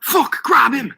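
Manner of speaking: high, urgent yell. A narrator's reading. Boy orders friends to grab the shopkeeper, yelling. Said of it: "I yelled".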